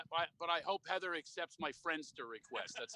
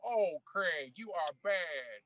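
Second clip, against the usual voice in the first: Magic Johnson impression; much slower than usual. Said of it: "you sounded like Magic Johnson".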